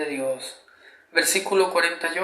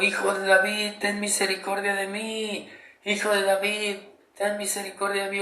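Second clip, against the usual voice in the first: 1 pleading cry for mercy; 4 semitones higher than usual. Acted. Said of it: "no se va a comparar el cómo lo estoy haciendo yo".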